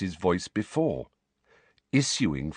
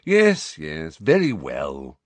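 impatient; 3 semitones lower, 4 dB louder, slower than usual. A narrator's reading. Phineas impatient.

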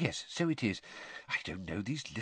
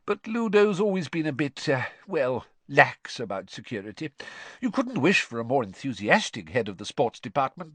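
lightly voiced fond Mr Weasley, a smile in it; smiling; 4 semitones higher, 3 dB louder than usual. Mr Weasley smiling as he excuses Ludo to the children. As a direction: speak fondly of an old star.

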